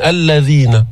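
الذين with a light, relaxed ذ; touch the ذ of الذين without pressing; careful, unstrained الذين; easy dhal. Shown as a demonstration. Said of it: "بسهولة".

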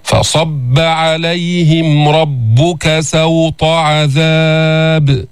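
slow, drawn-out chanted recitation; Quran recitation. Shown as a demonstration. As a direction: recite each verse slowly and melodically, letting the vowels ring. Teacher recites Quran with tajweed.

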